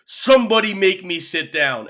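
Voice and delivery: mock a defiant fan daring the crowd; imitated fan yelling. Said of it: "yelling at e-, all the Eagles fan".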